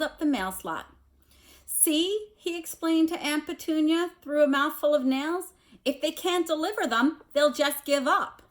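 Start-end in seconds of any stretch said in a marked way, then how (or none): 1.6-8.4 1 uncle explaining. A narrator's reading. Uncle through a mouthful of nails.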